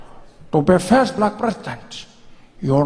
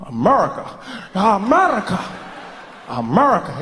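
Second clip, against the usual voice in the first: husky repeats. Shown as a demonstration. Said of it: "Bring the husk back".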